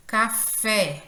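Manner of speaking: Café with FÉ stressed and held; stress on last syllable. Shown as a demonstration. Teacher showing the class oxítonas, Café stressed on FÉ. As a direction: say Café, leaning on the final fé. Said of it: "ela soa com maior intensidade".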